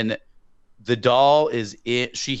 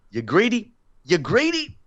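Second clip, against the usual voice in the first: mock scolding; 10 semitones higher than usual. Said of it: "scolding director Juan".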